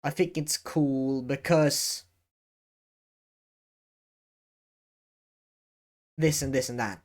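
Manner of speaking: slow and measured; slow deliberate demo. Shown as a demonstration. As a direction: lay each word down calmly. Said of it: "and, uh".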